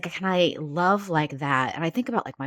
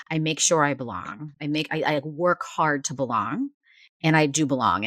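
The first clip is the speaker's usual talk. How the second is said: sassy. Retold or imitated. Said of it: "sort of sassy".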